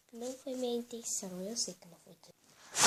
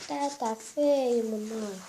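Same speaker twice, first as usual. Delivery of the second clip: put-on whining little girl; 2 semitones higher, 13 dB louder, much slower than usual. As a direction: complain like a hurt toddler. Filha-boneca reclama do machucado. (filha machucada reclamando com a mãe, voz aguda e alta)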